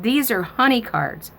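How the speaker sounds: put-on matter-of-fact little girl. Granddaughter explaining to grandma, high childlike voice. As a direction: state it like an obvious fact to a child.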